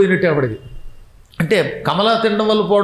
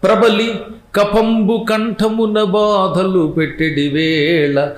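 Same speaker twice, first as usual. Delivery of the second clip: slow, drawn-out chanted verse, raised pitch; poem recitation; 2 semitones higher, much slower than usual. Acted. Preacher recites the poet's verse to the audience, in slow chant. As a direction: intone each line slowly like a padyam.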